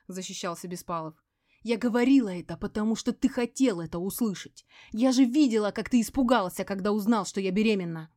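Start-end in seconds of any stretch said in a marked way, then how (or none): 1.6-8.1 accusing yell. A narrator's reading. Veronika accuses Sergey of fear, loud yelling. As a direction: throw it back at him. Quarrel continues.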